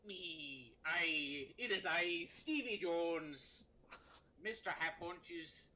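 slow, grand pirate god; drawn-out pirate boom. Acted. Pirate god scolds the captain.

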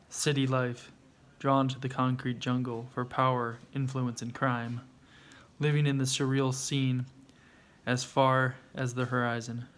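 slow, measured poem recital; earnest reading of a homemade poem. Acted. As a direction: read it like a spoken-word piece, letting lines land. Reads own poem aloud.

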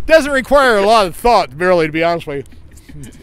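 talking round slipping dentures; words slurred by loose dentures. Real, not acted. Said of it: "My dentures are falling out".

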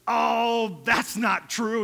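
loud, slow, firm correction; firm rebuke. Retold or imitated. Head elder steps in to overrule the greeter, loud and firm. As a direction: shut the greeter down.

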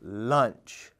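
a big fish eyes its lunch; lightly voiced old fish. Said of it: "the old fish hummed".

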